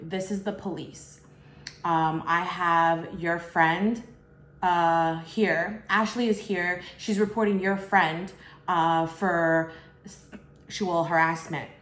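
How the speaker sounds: slow, official caller voice put on lightly; a hint of a fake cop reading out a formal charge; retold police caller. Caller claiming to be police, reading it slowly to the narrator.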